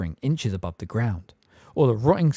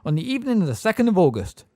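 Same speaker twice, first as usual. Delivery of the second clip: gabbled; 7 semitones higher, 4 dB louder than usual. A narrator's reading. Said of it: "gabbled Miss Fig at once".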